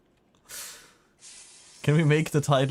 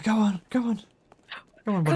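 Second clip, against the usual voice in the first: coaxing a pet; 10 semitones higher, faster than usual. Acted. Coaxing a stubborn game dog.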